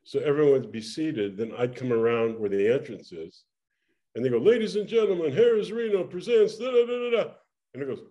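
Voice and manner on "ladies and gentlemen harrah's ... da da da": announcer intro. Retold or imitated.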